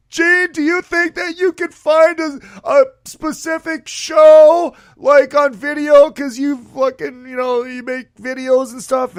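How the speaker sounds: high, excited fanboy pitch; fanboy gushing at his rock idol, high and eager. Retold or imitated. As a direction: rush it like an overeager fan. Fanboy stuff quoting himself.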